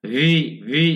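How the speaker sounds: ভি as an isolated, held "vee"; demonstrated V sound. Shown as a demonstration. Teacher showing how V usually sounds, demonstrated V. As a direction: sound out ভি with a clear English V. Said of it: "ভি এর উচ্চারণ কিন্তু ভি এরকম হয়".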